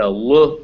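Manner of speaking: L said as a short "luh" sound; L sound alone. Shown as a demonstration. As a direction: sound out L as "luh", not the letter name. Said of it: "the L sound".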